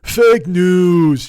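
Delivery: mocking, honked New York accent; honking New York voice. Mimicking his catchphrase for the audience, honking New York accent. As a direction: honk it out in a crude New York voice. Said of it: "His honking fucking New York bullshit voice".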